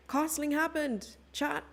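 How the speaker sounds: gasp, then high drawn-out surprise; startled exclamation. Real, not acted. Streamer telling chat about a missed move, astonished. Startled discovery on the chess board.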